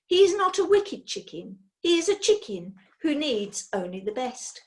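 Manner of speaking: put-on bossy old witch. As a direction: set him straight, fussy and firm.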